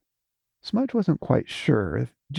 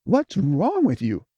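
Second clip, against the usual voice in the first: sharp raised snap; snapping; 5 semitones higher than usual. Acted. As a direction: snap at her, irritated. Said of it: "snapped Smudge".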